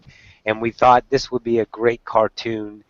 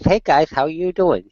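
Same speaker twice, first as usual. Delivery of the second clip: higher-pitched chirpy dog voice with a little lisp; Noodle; 5 semitones higher than usual. Retold or imitated. Voicing the Chihuahua greeting the guys, higher and lisping. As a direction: play an optimistic, lisping Chihuahua. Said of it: "she talks like this".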